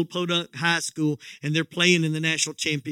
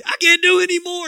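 straining cry of exhaustion; 11 semitones higher, 7 dB louder, faster than usual. Acted. Exhausted kid gives up crawling.

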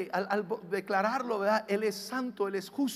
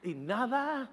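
modeled prayer declaration; 2 semitones lower than usual. Shown as a demonstration. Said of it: "Cuando tú empiezas a declarar".

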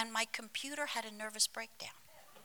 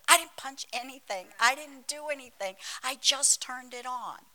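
higher-pitched, emphatic self-defence; mock defensive protest; 3 semitones higher, 3 dB louder than usual. Pastor answering associate about the computer, higher mock-defensive protest. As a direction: protest innocence, playing it up a little. Acts out her defensive reply.

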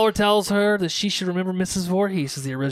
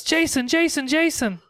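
mock yell; 10 semitones higher than usual. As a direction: imitate an excited shout, pitched way up. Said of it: "Casey jumps up and yells".

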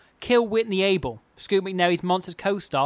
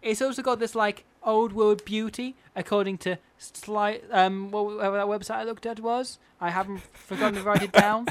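Paris Hilton; 5 semitones higher than usual. Acted. Host reading celebrity's tiling notes, high mock socialite. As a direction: keep up the silly high celebrity voice. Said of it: "she's really fond of terracotta tiling".

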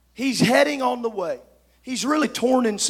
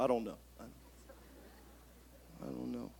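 much lower, soft talking-horse voice; Mister Ed; 11 semitones lower, 23 dB quieter, faster than usual. Pretend. Preacher joking with the church, low horse voice. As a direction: mumble like a sleepy talking horse. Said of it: "I feel Mister Ed coming on".

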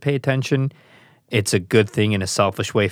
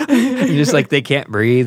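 mock crying kid; 5 semitones higher, 6 dB louder, slower than usual. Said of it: "making fun of the, the crying kid".

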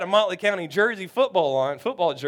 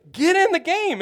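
impatient shout; 11 semitones higher, 5 dB louder than usual. Retold or imitated. Teammate repeats order.

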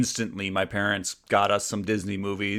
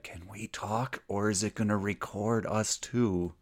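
hushed, much softer imitation of a whisper; retold whisper; 8 dB quieter than usual. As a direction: ask it under your breath, like a wary kid. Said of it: "and then I whispered".

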